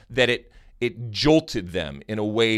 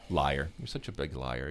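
mock accusation; 11 semitones lower, 10 dB quieter than usual. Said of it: "I accuse you of be, being a liar".

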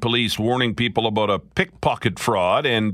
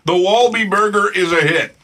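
laughing; 7 semitones higher, 6 dB louder than usual. Real, not acted. Host laughing loudly on air.

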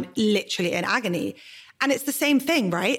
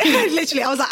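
laughing; 6 semitones higher, 5 dB louder, faster than usual. Real, not acted. Laughing with friend.

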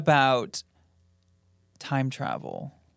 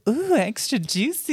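titillated; 9 semitones higher than usual. Shown as a demonstration. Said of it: "let me hear it again".

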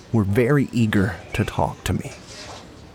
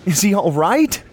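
anxious; 11 semitones higher, 3 dB louder than usual. Acted. Anxious question to police.

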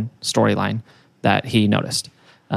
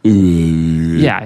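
alien noise; 6 semitones lower than usual. Pretend. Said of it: "That's pretty good".

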